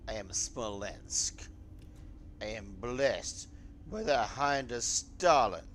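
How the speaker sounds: slow, booming mock Russian proclamation; bad Soviet accent. Gamer to his viewers, in a bad Soviet accent. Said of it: "I had the worst Soviet accent ever".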